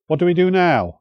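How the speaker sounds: high, urgent call across the room; a young warrior's anxious loud question; asked loudly. Acted. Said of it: "Cuthbert asked loudly".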